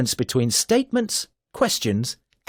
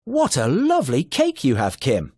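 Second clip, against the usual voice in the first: delighted exclamation, lifted pitch; amazed. Shown as a demonstration. Teacher demos a delighted exclamation about the cake. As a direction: gasp it out in happy amazement. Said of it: "strong feeling, perhaps amazement, excitement".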